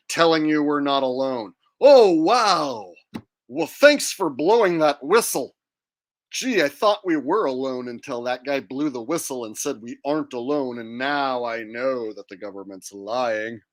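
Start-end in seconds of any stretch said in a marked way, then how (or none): 1.8-13.6 loud, fake-impressed oh wow; mock gratitude dripping with sarcasm; sarcastic.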